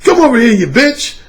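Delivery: mock harsh ranting. Shown as a demonstration. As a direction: bark insults with contempt. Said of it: "in a real harsh tone".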